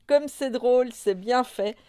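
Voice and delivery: loud, high, mocking glee; gleeful cry. A narrator's reading. Nini mocking papa in the water, crying out gleefully. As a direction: crow it out loudly with relish. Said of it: "s'écria".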